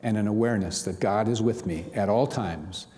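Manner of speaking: measured, earnest reading of an affirmation; devotional reading. Acted. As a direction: read it as a gentle daily prayer. Reads the daily devotional aloud.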